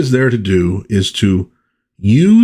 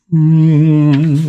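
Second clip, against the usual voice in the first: hummed transporter noise; 7 semitones higher, 3 dB louder than usual. Acted. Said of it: "maybe like a transporter sound".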